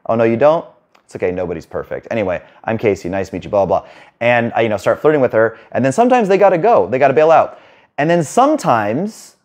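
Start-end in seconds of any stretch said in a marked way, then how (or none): 0.1-3.9 calm slow opener. Shown as a demonstration. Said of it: "I slow it down".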